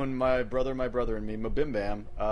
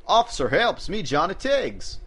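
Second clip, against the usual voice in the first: put-on Southern accent; 5 semitones higher, slower than usual. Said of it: "that's what I said".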